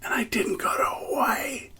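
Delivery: whispered, hammed-up crying; fake-sob the punchline for laughs; mock sob. Telling viewers about his cancelled Hawaii trip, mock sobbing whisper.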